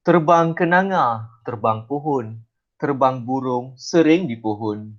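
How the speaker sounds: slow recital with a lifted opening; poetic intonation. Shown as a demonstration. Teacher demonstrating poem intonation to students, slow poetic recital. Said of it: "dia ada intonasi dia".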